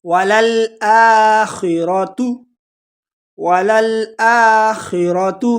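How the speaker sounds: وللآخرۃ intoned very slowly; slow recitation. Shown as a demonstration. Teacher reciting the word for students, slow intoning. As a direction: chant وللآخرۃ slowly, خ crisp. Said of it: "جلدی سے پڑھیں گے وللآخرۃ".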